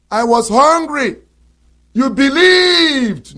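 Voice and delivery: sarcastic wrong version, drawn out; mock the wrong reading with scorn. Shown as a demonstration.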